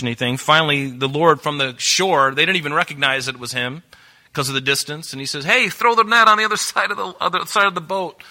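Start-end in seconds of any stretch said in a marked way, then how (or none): 5.4-8.2 raised, higher call across the water; calling out from afar. Acted. Jesus to fishermen out in their boat, calling out. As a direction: call out to people far off. The Lord calls from shore.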